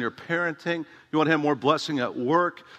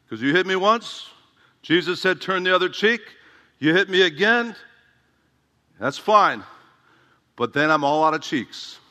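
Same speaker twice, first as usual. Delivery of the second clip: imitated Mexican-accented tough guy; Raul Reese; 3 semitones higher, 3 dB louder than usual. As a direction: put on a light Hispanic accent, pitched up at first. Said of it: "he's got this Mexican accent too".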